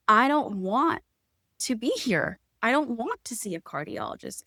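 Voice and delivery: mild retold distress. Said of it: "she was like".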